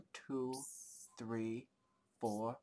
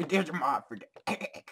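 laughing whisper; 4 semitones higher, slower than usual. Retold or imitated. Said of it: "You're so funny".

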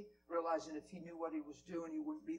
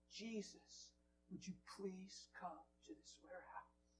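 soft pleading prayer; quoted prayer; 13 dB quieter, slower than usual. Retold or imitated. HR lady praying for her warehouse, soft plea. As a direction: pray it gently, asking. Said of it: "And I've been praying".

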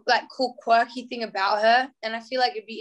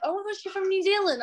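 quoting UK people; 9 semitones higher than usual. Retold or imitated. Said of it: "people are like".

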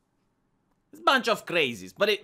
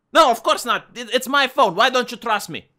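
louder, higher indignant denial; mock-offended boyfriend protesting loudly; defensive outburst; 4 semitones higher, 5 dB louder than usual. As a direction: snap back defensively, offended. Acted quarrel with fiance.

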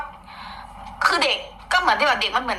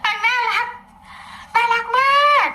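much higher, cutesy little-girl voice imitating the child; imitating toddler; 14 semitones higher, 3 dB louder than usual. Gossiping vlogger imitates the toddler, high cutesy child voice. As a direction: squeak it out like a tiny cute girl. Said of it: "นางอยู่อย่างเงี้ย".

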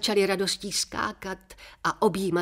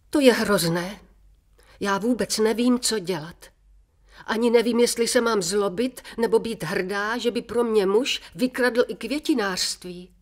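shocked and dismayed; 5 semitones higher, 4 dB louder than usual. A narrator's reading. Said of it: "Ženy byly překvapené a zděšené".

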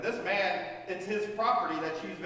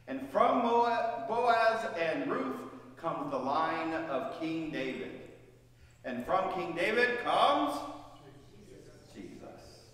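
dramatic build; 2 semitones lower, slower than usual. Real, not acted. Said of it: "slow climactic reveal".

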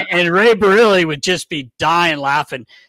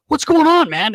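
high, loud imitation of an agitated friend; mock-frantic burst of curiosity; hyper questioning; 11 semitones higher, 5 dB louder than usual. Equipment manager demands news after the call, hyper. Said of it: "like, he's so hyper".

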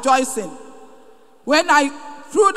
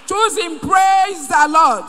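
call to praise; 3 semitones higher, slower than usual. Real, not acted. Testifier calling the congregation to praise, drawn out slowly. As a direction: stretch the call so they answer.

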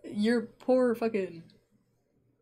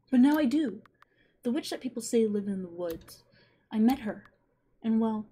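put-on boy's diary voice; 2 semitones higher than usual. Boy reads diary.

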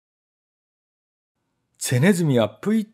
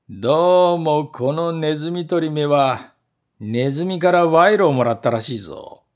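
angrier servant. Acted. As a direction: accuse the trap of taking bribes. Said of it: "ますます怒って言いました".

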